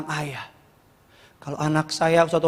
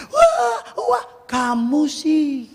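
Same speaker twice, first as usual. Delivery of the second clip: mock blaming; 9 semitones higher, much slower than usual. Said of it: "ketika udah jatuh berdarah".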